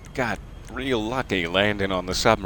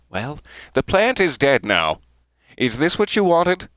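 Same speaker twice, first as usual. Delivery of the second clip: hurt host; 2 semitones higher than usual. Acted. Tea host confronting the guest over the dead plant, mock hurt. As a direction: play the injured party, then sulk into forgiveness.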